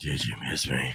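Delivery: very breathy, airy, soft delivery. Repeating a text message sent earlier: imitating own breathy tone. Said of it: "I said it in a very breathy tone".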